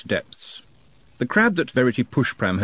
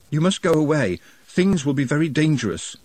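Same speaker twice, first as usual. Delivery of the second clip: moaning; 7 semitones higher than usual. A narrator's reading. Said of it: "Nutt moaned".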